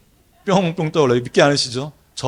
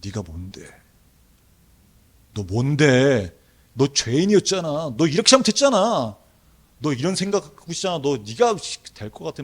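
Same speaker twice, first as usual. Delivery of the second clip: accusing inner voice. Retold or imitated. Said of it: "걸과 목소리로 하는 거예요".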